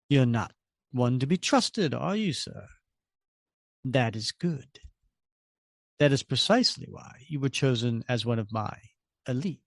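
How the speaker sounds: a hint of cool superiority; calm stranger. Stranger dismisses Red Skull, lightly voiced calm disdain.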